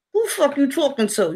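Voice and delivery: hissed through tight lips, grandma look; a mild grandma side-eye growl; tight-lipped. Retold or imitated. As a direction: talk without moving the lips, squinting. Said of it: "you really talking, but your lips ain't really moving".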